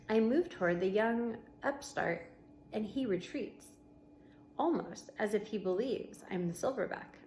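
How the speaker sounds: steady read-aloud voice for the class; story narration. A narrator's reading. Teacher reading a novel to her class, storybook narration.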